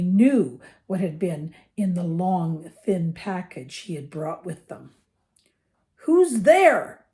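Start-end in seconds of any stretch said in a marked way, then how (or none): 6.0-7.1 high, loud call at an unseen intruder; shouted challenge. A narrator's reading. Armed uncle challenges whoever is smashing at the door, shouting. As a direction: shout it out, pitched right up. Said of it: "he shouted".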